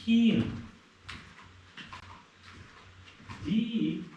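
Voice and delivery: high call across the yard. Real, not acted. Calling the lost dog.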